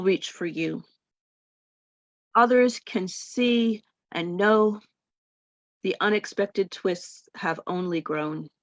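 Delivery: measured poetry recital with pauses between lines; poem reading. Real, not acted. Poet reads her late husband's villanelle to an audience, measured poem reading. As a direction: read it as verse, each line set apart by a pause.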